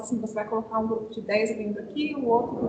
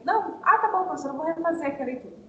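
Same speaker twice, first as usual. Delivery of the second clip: lightly acted student, higher voice; quick, higher, easygoing pupil reply, lightly voiced; uninhibited student; 5 semitones higher, faster than usual. Uninhibited student agreeing to redo the reading, lightly acted. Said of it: "mais desinibido".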